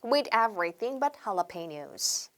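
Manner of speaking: slow, careful teacher demo of the phrase; each word spelled out slowly for learners to repeat; slow English demo; slow model phrase. Shown as a demonstration. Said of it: "영어로 해볼게요".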